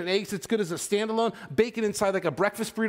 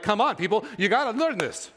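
mock exasperation; 5 semitones higher than usual. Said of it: "I'm like".

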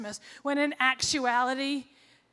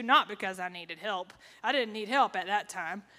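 dry, understated sarcasm; mock denial, pitched a little down; sarcastic; 4 semitones lower than usual. Real, not acted. Telling of court-ordered rehab, sarcastically denying she needed help. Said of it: "Please hear the sarcasm in my voice".

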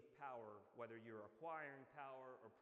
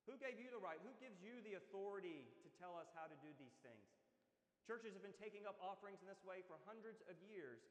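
upset indignation; 4 semitones higher than usual. Pretend. Congregation confronting a disrupter, indignant and higher. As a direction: demand it like an offended churchgoer. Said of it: "we'd be pretty upset".

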